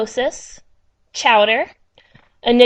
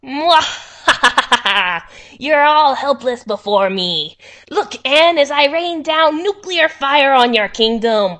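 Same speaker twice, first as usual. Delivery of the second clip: slow gloating villain with a cackle; hammy evil overlord, savour each threat; sneering panto villain; 3 dB louder, slower than usual. Pretend. Playing villain with action figure.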